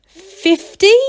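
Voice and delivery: high nervous guess; ventured. A narrator's reading. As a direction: offer the number hesitantly, rising. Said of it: "he ventured".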